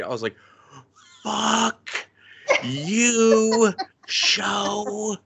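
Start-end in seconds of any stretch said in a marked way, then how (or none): 1.2-5.2 mock furious cursing. Retold cursing at the show.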